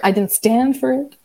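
slow, emphatic "I didn't stand for it". Acted. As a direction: hit each word of "I didn't stand for it" firmly and slowly. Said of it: "it feels very emphatic".

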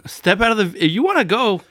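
high, loud retold challenge; heated challenge. Retelling challenge to other driver in parking lot, heated. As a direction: call him out to fight, loudly.

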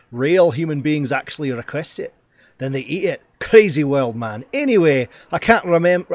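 a hint of brash celebrity chef hype; Guy Fieri impression. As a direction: pitch it like a loud food-show host. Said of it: "does anyone do a good Guy Fieri?".

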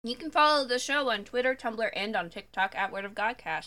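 talking through a mouthful of granola; words round a bite of food; mouth full. Real, not acted. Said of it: "I have granola in my mouth".

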